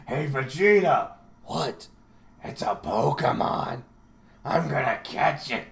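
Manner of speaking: lightly voiced goofy sidekick; Nappa. Henchman telling his partner about a Pokemon, goofy impression. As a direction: do a playful impression of a cartoon henchman. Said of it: "I love Nappa".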